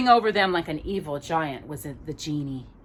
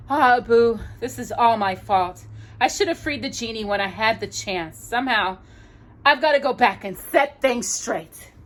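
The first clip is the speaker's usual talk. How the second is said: put-on remorseful young hero; 5 semitones higher, 3 dB louder than usual. Aladdin voiced remorseful.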